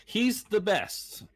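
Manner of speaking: robotic, glitchy connection; words chopping out like bad signal; radio breaking up. Real, not acted. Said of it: "you're turning to, like, a robot".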